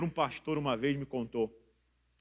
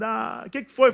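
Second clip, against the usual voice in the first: higher, louder mock concern; acted concerned question; 7 semitones higher, 8 dB louder than usual. Someone asking a crying person what happened, acted concern. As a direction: ask the cry-baby what happened.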